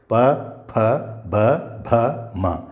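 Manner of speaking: प, फ, ब, भ, म each closed with the lips; lip sounds demo. Shown as a demonstration. Teacher showing students that lips are needed, letter by letter. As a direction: press the lips on प, फ, ब, भ, म. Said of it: "पा बोलो और ओंठ न मिलाओ".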